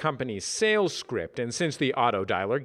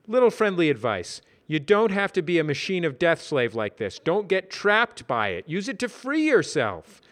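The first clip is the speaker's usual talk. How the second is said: Brad voice; 6 semitones higher, 3 dB louder than usual. Acted. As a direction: advise him kindly. Brad gives advice.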